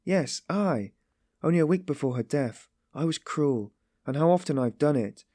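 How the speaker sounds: high, wretched self-reproach; pained remembering. A narrator's reading. Sonia remembers bringing her to tears, wretched. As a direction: blame yourself, pained and agitated. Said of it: "at the pain of remembering it".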